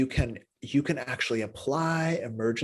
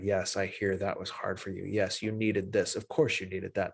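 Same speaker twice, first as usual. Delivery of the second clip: compassionate reassurance; 3 semitones lower, 4 dB quieter than usual. Shown as a demonstration. Showing listeners how a supporter soothes someone, softly and tenderly. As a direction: hold them gently with your voice.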